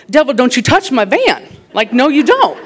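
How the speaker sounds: loud, high mock rebuke of the devil; hammed-up rebuke; rebuking the devil. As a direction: command the devil off your van, half laughing. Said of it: "I said".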